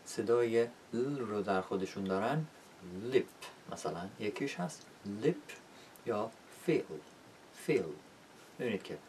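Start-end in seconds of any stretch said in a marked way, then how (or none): 3.0-3.3 "لیپ" starting on a lively L; crisp front L in "لیپ"; clear L. Shown as a demonstration. 5.1-5.5 "لیپ" with a full, clear first L; lively L beginning "لیپ". Shown as a demonstration. 6.7-7.8 "فیل" ending on a dull, weakened L; swallowed final L in "فیل"; dark L. Shown as a demonstration.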